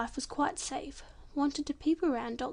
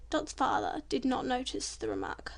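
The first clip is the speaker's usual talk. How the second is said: ordinary delivery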